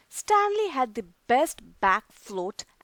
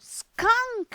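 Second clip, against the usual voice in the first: alarmed whisper; 11 semitones higher, 4 dB louder than usual. A narrator's reading. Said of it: "he whispered".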